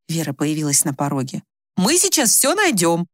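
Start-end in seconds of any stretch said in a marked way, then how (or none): 1.8-3.1 slow, reassuring promise; very calm. A narrator's reading. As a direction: soothe her, unhurried and slightly sing-song. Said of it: "Она говорила очень спокойно".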